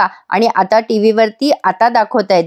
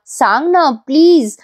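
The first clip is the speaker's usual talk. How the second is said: soft pleading; 4 semitones higher than usual. Retold or imitated. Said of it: "Gauri आता जरा romantic झाली आहे".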